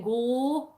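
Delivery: "Go" with a long rounded o; "Go" held long, imitating a friend; imitated mispronunciation. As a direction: mimic a friend's attempt at Scottish "Go". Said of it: "'Cause she went".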